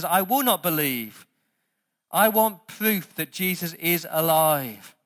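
skeptical insistence. Retold or imitated. Preacher voices Thomas refusing to believe, skeptical insistence. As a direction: dig in and demand proof. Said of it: "he's just a bit skeptical".

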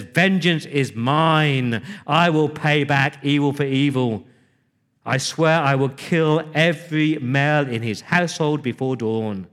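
vengeful vow. Retold or imitated. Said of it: "and David says".

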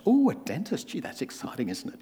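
hammed-up disappointment, voice sinking; mock deflated interest. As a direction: act unimpressed once it's only a dentist. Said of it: "the attitude changes".

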